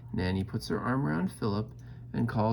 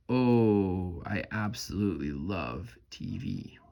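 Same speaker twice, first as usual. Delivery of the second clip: delighted; slower than usual. Acted. Delighted exclamation.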